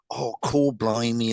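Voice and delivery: rough imitation of a Cockney exclamation; lightly imitated Cockney; half-hearted Cockney. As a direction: attempt a Cockney accent, lightly. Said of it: "a Cockney accent, but he's, he's saying".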